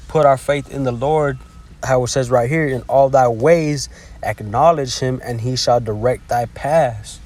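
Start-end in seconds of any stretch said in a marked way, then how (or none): 2.7-7.2 slow, measured Bible reading; stretched-out recitation of scripture. Acted. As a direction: read the verse out slowly and deliberately. Reads scripture aloud.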